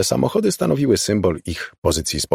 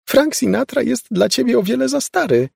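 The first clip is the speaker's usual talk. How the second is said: high shouted retort; high mock shout; 13 semitones higher than usual. A narrator's reading. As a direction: snap back at her, raised voice. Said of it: "krzyknęła Laura".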